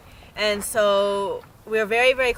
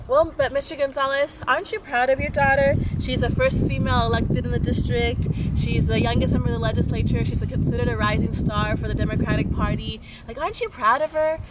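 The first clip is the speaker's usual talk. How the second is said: higher-pitched, coaxing reporter; lightly voiced persuasive questioning; pressing reporter; 4 semitones higher, 3 dB louder than usual. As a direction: imitate an interviewer pushing for a yes. Reporter pressing dad in retold interview.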